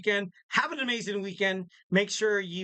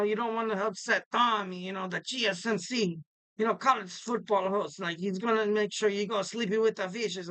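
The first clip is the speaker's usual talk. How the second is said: put-on playful Italian mobster accent; mock mob warning in an Italian accent. Podcaster jokingly warns listeners about Tommy, mock Italian accent. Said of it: "I have this Italian accent".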